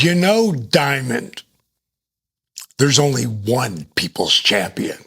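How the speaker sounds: lightly voiced wrestler in character; The Rock. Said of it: "he's just rolling into character".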